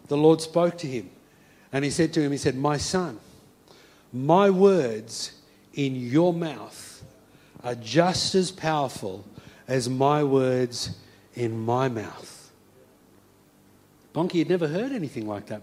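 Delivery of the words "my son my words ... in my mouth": slow, lower solemn divine voice; voice of God. Acted. God to Bonke mid-sermon, slow and solemn. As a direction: speak slowly as God to his son.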